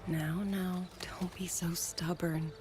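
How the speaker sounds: whispered, tender chiding; hushed coaxing. Acted. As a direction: hush them like a fond elder. Soothing a stubborn young companion.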